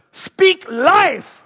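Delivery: rally call, full voice; loud shout. Retold or imitated. Speaker at a school retreat shouting to kids. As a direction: shout it out to the room. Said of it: "he would shout out really loud".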